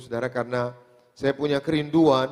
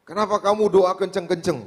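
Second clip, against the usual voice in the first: mild, higher-pitched scolding question; retold angry father; 5 semitones higher, 3 dB louder than usual. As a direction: imitate an annoyed father's complaint. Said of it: "justru dia marah sama saya". (menirukan ayah yang marah)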